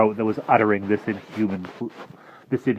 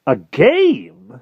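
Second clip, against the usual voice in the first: higher, louder scoffing question; mocking disbelief; 10 semitones higher, 9 dB louder than usual. Jive scoffs at Harvey's excuse, louder. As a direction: scoff at the idea.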